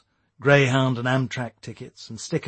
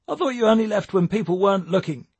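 raised, higher-pitched calling voice; yelled; 8 semitones higher, 4 dB louder, faster than usual. A narrator's reading. Tommy calls after Jake as he leaves, a moderate yell. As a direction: call it out after someone leaving. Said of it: "yelled Tommy".

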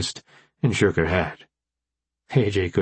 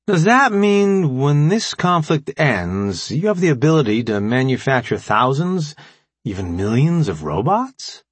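eager, higher-pitched question that settles as it goes; excited; 5 semitones higher than usual. A narrator's reading. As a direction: ask with building wonder, drawing out the opening. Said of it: "Remy asked excitedly".

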